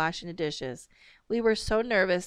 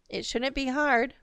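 terse; 7 semitones higher than usual. A narrator's reading. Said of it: "Mom said tersely".

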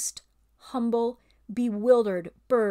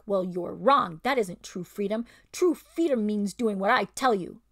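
louder, sneering ape; ape's bullying voice; 4 dB louder than usual. Acted. Ape scolds the old bear, sneering.

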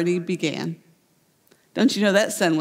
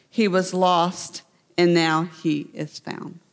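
slow, tender close; 3 semitones lower, slower than usual. Acted. Climax of the parable.

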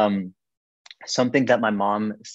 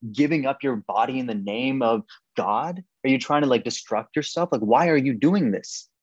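mild mock anger; 3 semitones higher than usual. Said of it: "my dad just erupts".

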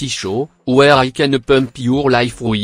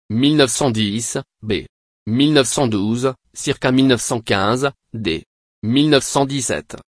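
put-on German accent. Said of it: "God damn his German accent".

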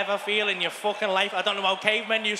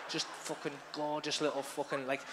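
a touch of dreamy admiration; mock adoring; 5 semitones lower than usual. Dotingly describing soft, beautiful things.

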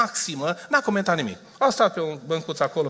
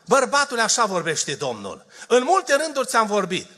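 higher, ringing prophetic proclamation; prophetic call; 7 semitones higher than usual. Retold or imitated. The prophet calling out to the man, in a raised prophetic voice. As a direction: proclaim as the voice of the Lord. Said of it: "Duhul Sfânt strigă pentru un bărbat".

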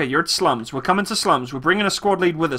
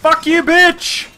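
drawn-out taunt, higher; slow taunting yell; 8 semitones higher, 3 dB louder, much slower than usual. Real, not acted. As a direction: stretch the insult out slowly. Killing enemy in game.

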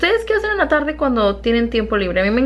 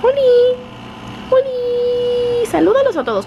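high, squeaky pet talk, much higher; slower than usual. Real, not acted. Owner greets her Yorkie in high baby talk.

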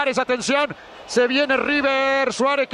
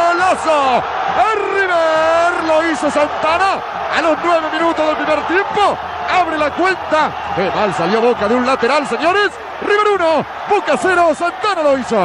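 excited goal call. Real, not acted. Goal call after a throw-in.

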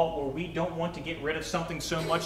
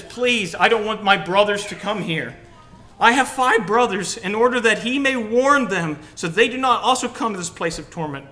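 higher, loud desperate plea; begging rich man; 4 semitones higher, 6 dB louder than usual. Acted. Rich man in torment pleading with Abraham, loud. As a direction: cry out to Father Abraham.

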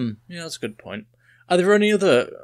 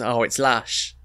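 mock Essex "lash" for lush; Essex accent; slower than usual. Teasing friend's southern pronunciation, imitated Essex accent. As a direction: say "lash" with an open Essex vowel. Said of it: "You went sort of Essex".

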